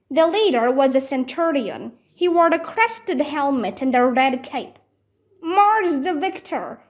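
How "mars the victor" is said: high hailing yell; yelled greeting. Acted. Jack yelling a greeting to the Roman horsemen. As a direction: hail the horsemen boldly. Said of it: "Jack yelled".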